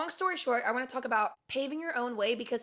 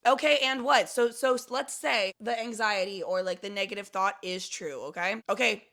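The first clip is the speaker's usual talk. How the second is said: loud, defiant so-what attitude; brash, couldn't-care-less self-talk; humorous, not caring; 5 dB louder than usual. Shown as a demonstration. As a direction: shrug off the worry boldly. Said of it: "with, like, a sense of, like, humor and not giving a fuck".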